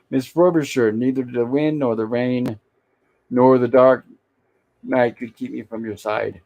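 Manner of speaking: slow, grand mock French accent; French doctor accent. Host quotes Gilligan's French doctor vowing devotion, mock French accent. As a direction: declaim it like a hammy fake French doctor. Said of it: "Gilligan's French doctor speaking".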